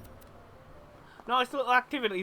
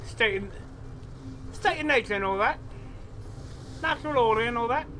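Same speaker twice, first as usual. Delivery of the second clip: put-on Cockney-Australian accent. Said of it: "I'm doing a mixture of Cockney and Australian".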